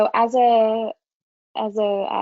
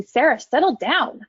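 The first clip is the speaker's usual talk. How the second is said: sharp, a bit higher and louder; impatient command; 4 semitones higher, 3 dB louder than usual. Shown as a demonstration. Counsellor showing the unhelpful way to address Sarah. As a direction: snap it like an irritated order. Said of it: "I didn't say".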